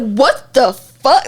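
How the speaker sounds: very slow, drawn-out disbelief; retold shock, stretching each word; shook. Recalling being harassed in the cafeteria, still stunned. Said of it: "still so shook to this day".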